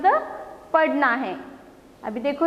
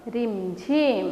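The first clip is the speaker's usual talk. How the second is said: slow blended word; 2 semitones lower, much slower than usual. Shown as a demonstration. Teacher blends syllables into word.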